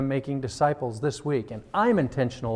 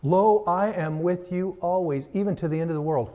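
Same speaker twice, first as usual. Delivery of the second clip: solemn scripture reading; 3 semitones higher than usual. Acted.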